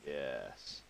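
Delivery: gloating. Real, not acted. Gloating after killing.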